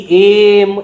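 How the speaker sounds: এম said clearly with a strong opening e; এম spoken slowly for the class; pronunciation demo. Shown as a demonstration. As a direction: stress the vowel at the start of এম. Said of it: "pronunciation কি".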